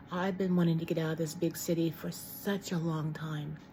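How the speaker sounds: words round a cough drop; chewing a cough drop. Real, not acted. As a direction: talk while sucking a lozenge. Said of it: "sorry, I'm chewing on a cough drop".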